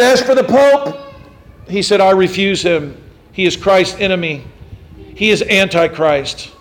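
defiant declaration. Retold or imitated. Martyr at the stake defies the Pope, loud. Cranmer's defiant final speech.

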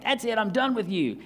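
high-pitched mock exasperation; comic fed-up exit. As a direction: act out quitting as in a comedy sketch. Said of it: "it's like almost a comedy sketch".

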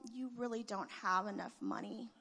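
soft, whispered put-down; quiet whispered jab; nice but pointed. Retold or imitated. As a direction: say it sweetly under the breath. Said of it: "I nicely looked at him".

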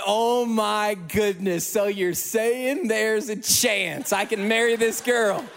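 slow, stretched-out relieved gasp; wave of relief. Retold or imitated. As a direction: let the relief slowly wash over each word. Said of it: "feeling this, like, wave of relief".

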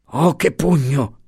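high, drawn-out acted groan; moaning. A narrator's reading. Winded guard reacting to the punch, moaning. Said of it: "gemeva la guardia".

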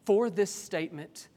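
reading the verse word for word; exact quote. Shown as a demonstration. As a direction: lift "For this statement" as the exact quotation. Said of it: "What is the words he actually uses?".

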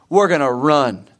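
a hint of a firm coach announcing the drill; mild coach voice. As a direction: lightly play the coach laying down the rule. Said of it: "your coach, uh, says".

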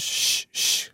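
whispered hushing; hushing shh. Retold or imitated. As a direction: hush the child quickly. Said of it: "she goes".

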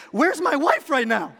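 high, loud mock-desperate cry; hammed-up panic, about to lose it; frustrated dad. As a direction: call for rescue like a frazzled parent. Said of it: "I'm frustrated. I'm sweating".

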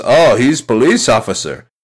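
put-on movie chef in a Chinese accent; lightly put-on Chinese accent; imitated Chinese accent. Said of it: "this is exactly how he says the line".

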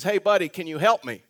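mild mock yell; retold call for help. Man hailing a stranger across the parking lot, mild retold yell. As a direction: call out like a stranger, only half shouting. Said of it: "this man screams out and says".

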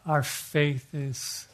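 slow, hushed pastoral prayer. Acted. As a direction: pray it slowly and humbly, like a pastor. Leads closing prayer.

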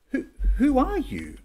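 high, laughing who are you; mock their outrage with a laugh; laughing disbelief. Preacher mimicking the Pharisees questioning Jesus, laughing and high.

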